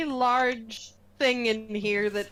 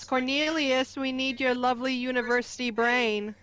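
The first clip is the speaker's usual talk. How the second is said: sing-song voice. Acted. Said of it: "in a sing-song voice".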